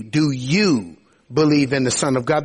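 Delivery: "you" picked out above the other words; stress on YOU. Shown as a demonstration. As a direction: lean on "you" in the question. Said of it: "draw your attention to the word you".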